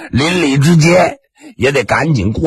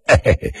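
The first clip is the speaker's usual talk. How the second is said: chuckle; 3 dB quieter, faster than usual. Acted. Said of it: "纪晓岚扑哧一乐".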